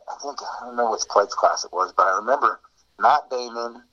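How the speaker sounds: muffled, covered-mic sound. Real, not acted. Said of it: "You get a little muffled".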